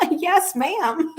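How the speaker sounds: high, coy old lady's reply, imitated; sweet old lady. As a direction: answer like a sweet elderly lady caught out. Elderly lady Miss Bonnie answers.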